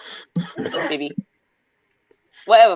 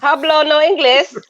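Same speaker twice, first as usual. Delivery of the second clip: mock Spanish; 5 semitones higher than usual. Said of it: "I don't speak English right now".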